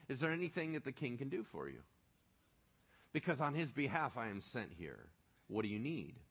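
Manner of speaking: soft, low, a little quick, as if in your head; inner voice. Shown as a demonstration. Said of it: "say a phrase in your head like this".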